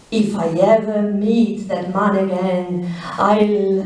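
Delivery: a hint of a measured, weighted threat; slowly and emphatically. A narrator's reading. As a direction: press each word, lightly, as a barely held-back vow. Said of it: "slowly and emphatically".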